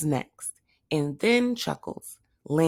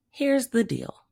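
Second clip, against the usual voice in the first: whisper; 7 semitones higher than usual. A narrator's reading. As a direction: breathe the words. Hector's line, unvoiced.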